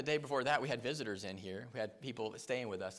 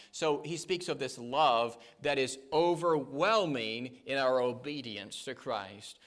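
fervent sermon delivery, rising and falling; preaching; 4 dB louder than usual. Acted. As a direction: preach it out to the congregation.

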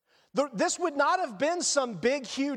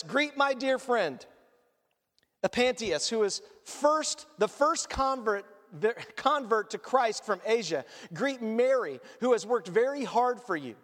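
slightly lower, measured reading of the verse list; scripture reading; 3 semitones lower than usual. Acted. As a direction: read the names out steadily from the text. Reads scripture aloud.

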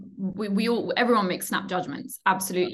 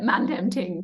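London slang imitation; slower than usual. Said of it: "the way you just said that".

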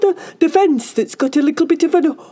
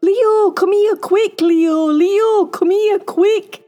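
high, urgent excited shouting; really loud; 13 semitones higher, 7 dB louder, slower than usual. A narrator's reading. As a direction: call your friend over at full excitement. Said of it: "he said really loud".

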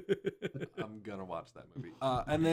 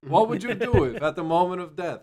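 louder and higher, a booming narrator; mock announcer boom; 5 semitones higher, 10 dB louder than usual. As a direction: boom it like a hammy trailer. Louder retake of intro.

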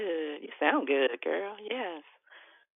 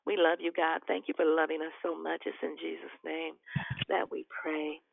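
earnest spoken prayer. Acted. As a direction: pray over the group. Leads a group prayer.

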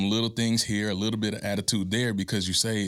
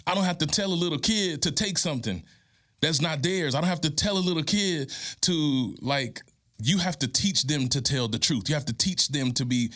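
impassioned preaching; 9 semitones higher than usual. Real, not acted. Urging a grieving single mom, high and impassioned. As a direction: pitch climbs high, preacher fervor.

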